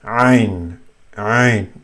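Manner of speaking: Ain pressed out from the middle of the throat; throat-muscle ain. Shown as a demonstration. Teacher showing how to say it, Ain from mid-throat. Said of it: "you use your throat muscles".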